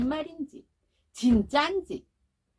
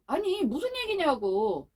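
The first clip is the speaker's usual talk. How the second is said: pressing mother; 6 semitones higher than usual. Retold or imitated. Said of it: "엄마가 또 막 다그쳐요".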